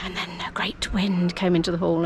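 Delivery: hushed dramatic storyteller whisper. Retold or imitated. Recalling storytelling company days, hushed storyteller whisper. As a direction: whisper it like telling a tale. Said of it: "So it'd be, like".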